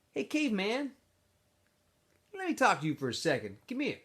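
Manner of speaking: a smooth-talking camp leader pulling him aside; X-Ray's voice. Acted. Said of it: "X-Ray said".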